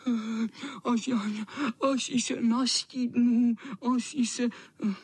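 high, whimpering cat voice; high pitiful cat whimper; whining cat. A narrator's reading. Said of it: "kňučel".

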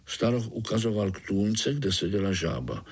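plain reading voice

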